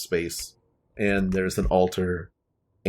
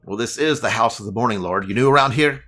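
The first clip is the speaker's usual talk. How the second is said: gnome voice; 3 semitones higher, faster than usual. Acted.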